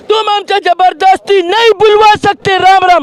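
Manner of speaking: Mehbooba Mufti. Retold or imitated. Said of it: "Mehbooba Mufti कहती थी".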